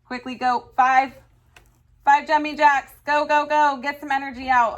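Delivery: energetic command. Real, not acted. Teacher calls class to exercise.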